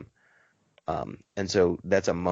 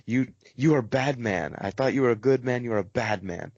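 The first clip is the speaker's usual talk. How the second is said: mock cursing old man; 4 semitones higher than usual. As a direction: grumble like a hurt old man. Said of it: "he's cursing you".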